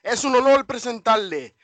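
booming ring announcer, stretched-out name; lucha libre announcer. Shown as a demonstration. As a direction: introduce him like a Mexican ring announcer. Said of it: "why don't you tell them who it is?".

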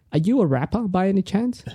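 high, tentative mock question; tentative guess. Voicing the psychic's wild guess.

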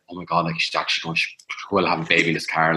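husband's silent panic while driving, fast; inner panic. Retold or imitated. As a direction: rush it, low and alarmed. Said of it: "I went in my head".

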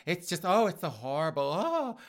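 a light mock of a dramatic gossip; mock drama queen. Mocking gossip queens who crave drama, lightly hammed-up. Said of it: "have to have some drama".

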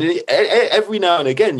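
can't hold back a laugh. Real, not acted. Telling the host about clubbing, laughing.

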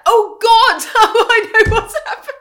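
high, loud laughing exclaim; sudden realization. Real, not acted. Wife realizing why she is giddy, laughing loudly. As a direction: burst out as it dawns on her.

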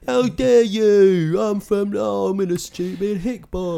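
high, slow mock Southern accent; hammed-up Southern accent, pitched high; ridiculous Southern accent. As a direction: drawl out a silly hick Southern accent. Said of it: "he's doing a ridiculous Southern accent".

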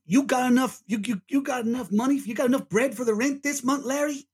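high-pitched sitcom New York cabbie; New York accent. Acted. Cab driver asking his flatmate for rent, New York accent. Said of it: "Is that Kane doing a New York accent?".

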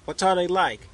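high, curious question; eager. A narrator's reading. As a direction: ask it eagerly, leaning in. Eager girl asks about dreams.

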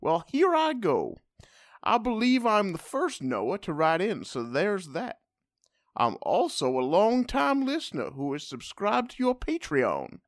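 put-on southern accent. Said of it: "Noah with the southern accent".

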